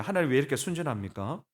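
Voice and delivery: mildly indignant pleading, question after question; retold protest in prayer; arguing with God. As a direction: press God for an explanation. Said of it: "제가 따졌거든요".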